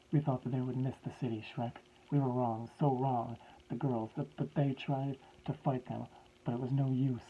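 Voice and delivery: a hint of a broken old scientist pleading; grieving professor.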